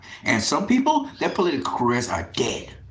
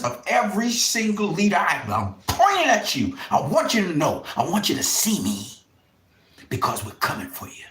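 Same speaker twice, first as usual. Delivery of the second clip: angry accusation; 3 semitones higher than usual. Real, not acted. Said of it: "I'm sorry I had to sound like that".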